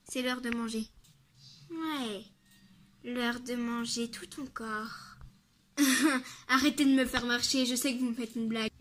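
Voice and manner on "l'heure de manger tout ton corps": sinister monster voice. Acted. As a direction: threaten slowly like a monster.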